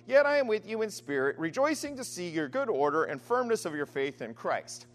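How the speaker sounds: measured reading of scripture aloud. Acted. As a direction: read the passage with formal gravity. Scripture reading before sermon.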